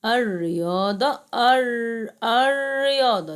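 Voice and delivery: الرياضة with silent lam and a held, doubled r; sun-letter lam. Shown as a demonstration. Teacher showing pupils the lam shamsiya, sun-letter assimilation. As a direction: lean hard on the doubled r of الرياضة. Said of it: "يبقى شمسية".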